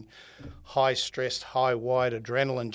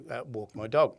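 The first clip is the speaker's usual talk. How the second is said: ordinary talk, nothing marked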